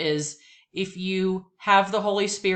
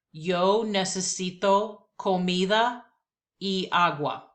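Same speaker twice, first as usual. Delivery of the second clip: slow repeat-after-me Spanish; slower than usual. Shown as a demonstration. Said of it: "One more time, here we go".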